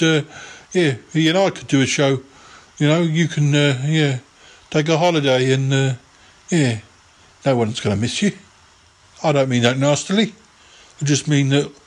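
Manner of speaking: lightly voiced rambling yeti uncle; a hint of a dithering old uncle; Yeti Uncle John. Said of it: "It's me, Yeti Uncle John".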